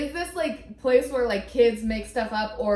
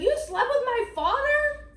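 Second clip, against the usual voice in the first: imitating child; 13 semitones higher than usual. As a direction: shout it like a kid, out in public. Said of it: "It's like".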